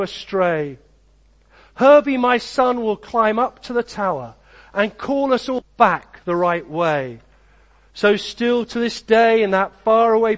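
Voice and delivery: put-on rhyming storybook read aloud to children; story narration. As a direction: tell it like a bedtime picture book, lilting along the verse.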